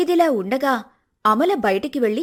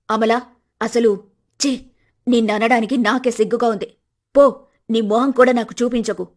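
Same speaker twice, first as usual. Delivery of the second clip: louder, disgusted rebuke; scolding; 5 dB louder than usual. Acted. Mother-in-law scolding her daughter-in-law, angry and disgusted. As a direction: tell her off and send her away.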